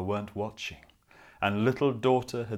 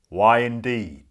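loud sly wolf voice; 10 dB louder than usual. Acted. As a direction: purr it suspiciously like a wolf. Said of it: "said the wolf".

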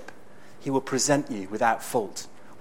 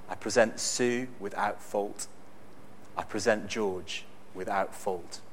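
smiling; 4 semitones lower, 5 dB quieter than usual. Retold or imitated.

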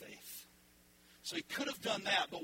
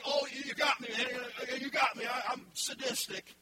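mock defeated; 5 semitones higher, 3 dB louder than usual. Mock God saying "you got me.

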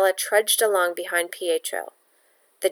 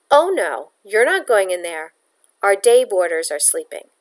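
sharp refusal; 5 dB louder than usual. Acted. Landlady blocks the door.

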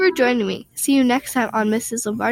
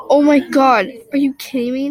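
exasperated outburst; 3 semitones higher, 5 dB louder than usual. Acted. Brother lost the toddler.

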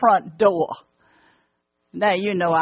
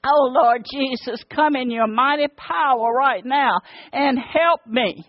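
raised pitch, desperate repentant plea; pleading prayer; 4 semitones higher than usual. Retold or imitated. Mother on her knees begging God to save her son, pleading. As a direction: beg God to save your boy.

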